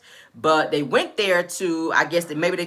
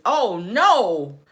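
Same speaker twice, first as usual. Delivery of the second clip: higher-pitched mock lament; retold tearful dismay; 5 semitones higher, 3 dB louder than usual. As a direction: imitate a friend starting to cry, without real tears. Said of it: "Tisha starts crying, and she says".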